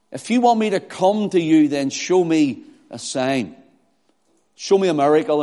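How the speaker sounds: mildly sarcastic demand; cynical arrogance. Acted. Doubters demanding a sign from Jesus, cynical. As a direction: challenge him to prove himself. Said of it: "sarcasm and cynical arrogance".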